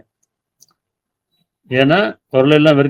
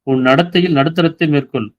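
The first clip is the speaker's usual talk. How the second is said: verse reading; 3 semitones higher than usual. Shown as a demonstration. Quoting a verse, then explaining.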